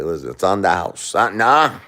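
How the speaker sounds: hushed wise-guy mumble, sinking to a whisper; Robert De Niro. Acted. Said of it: "Robert De Niro say".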